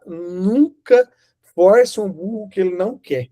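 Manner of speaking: slow emphatic. Shown as a demonstration. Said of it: "Eu vou explicar de novo".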